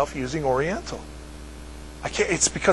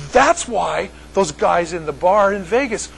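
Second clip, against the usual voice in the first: light mock Manchester accent, slower; 3 semitones higher than usual. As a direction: imitate the Northern English friend's realisation. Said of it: "said with his accent".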